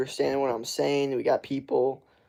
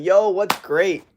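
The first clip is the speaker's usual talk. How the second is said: slow, higher quirky greeting; odd greeting; 6 semitones higher, 6 dB louder, slower than usual. Retold or imitated. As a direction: say it slowly like a strange twist. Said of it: "I'm like".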